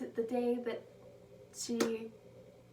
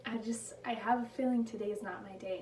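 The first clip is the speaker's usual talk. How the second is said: nervous plea; 6 dB louder than usual. Retold or imitated. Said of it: "she goes up to her trainer and she's like".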